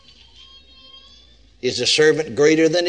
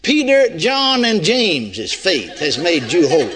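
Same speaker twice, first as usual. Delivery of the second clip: mock misquote; 3 semitones higher than usual. Shown as a demonstration. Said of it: "No, that wouldn't be enough".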